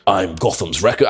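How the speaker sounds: lightly put-on deep hero voice; a hint of a mock superhero growl; Batman. Guy jokes about forcing the deep voice, mock hero voice. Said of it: "Use the deep voice or anything".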